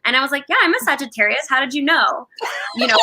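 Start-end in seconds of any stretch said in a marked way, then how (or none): 0.5-2.3 higher-pitched, innocently pleased reply; naive newcomer. Retold or imitated. Newcomer mistaking the union for zodiac, innocently delighted. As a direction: answer with clueless delight.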